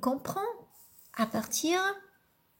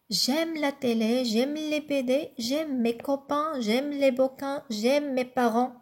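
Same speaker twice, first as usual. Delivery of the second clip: poem reading. Acted. Lit le poème à voix haute.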